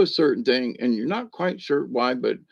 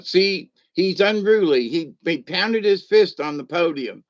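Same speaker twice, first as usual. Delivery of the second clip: higher, a touch louder tattling; mock accusation; 5 semitones higher, 4 dB louder than usual. Voicing the Democrats, lightly mocking tattle. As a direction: point the finger in mock outrage. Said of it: "the Democrats going".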